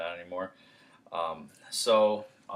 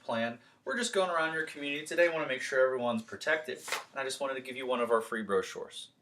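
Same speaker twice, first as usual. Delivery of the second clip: friendly door pitch; 2 semitones higher than usual. Shown as a demonstration. Salesman pitching neighbor at the door, upbeat and friendly. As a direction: sell it with a cheery smile. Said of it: "do a little role play here".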